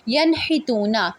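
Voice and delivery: ینحتونا with the نون clearly voiced and no nasal hum, slowly; clear izhar. Shown as a demonstration. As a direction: say ینحتونا with a clean, unhidden نون, drawn out. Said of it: "میں نے درمیان میں کوئی وقفہ نہیں لیا".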